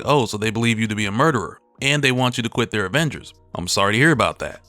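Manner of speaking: dry, sarcastic reading; lightly sarcastic jab. Retold or imitated. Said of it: "Thor gets a bit sarcastic".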